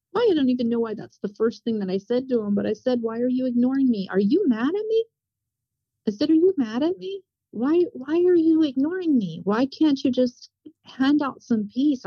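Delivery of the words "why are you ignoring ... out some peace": higher, pleading questions from a scared believer; retold frightened plea. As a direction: ask God why he is silent, scared and pleading.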